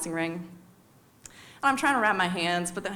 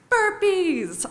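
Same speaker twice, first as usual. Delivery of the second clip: loud, much higher drill shout; coach yelling; 11 semitones higher, 6 dB louder than usual. Retold or imitated. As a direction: bark it out like a fitness coach. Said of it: "Arturo yells".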